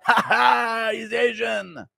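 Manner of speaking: high mocking laugh into jeer; Cyril Gane. Fighter bullying a smaller fighter, high mocking jeer. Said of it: "Impression of Cyril Gahn bullying Tatsuro Taira".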